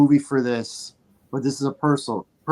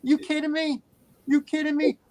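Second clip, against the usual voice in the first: high, incredulous retold challenge; indignant; 10 semitones higher than usual. Moviegoer challenging the clapping women, indignant. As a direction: throw it at them in disbelief, pitched up. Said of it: "I was getting louder and more serious".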